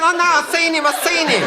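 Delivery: high, insistent show-off; Cyril voice. Retold or imitated. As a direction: squeak it out like a know-all. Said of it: "Cyril was the sort of fellow".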